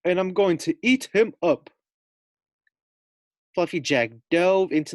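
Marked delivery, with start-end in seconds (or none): 0.0-1.7 booming giant threat, high and loud; menacing giant gloating over his meal. Acted. Giant gloating to the guinea pig.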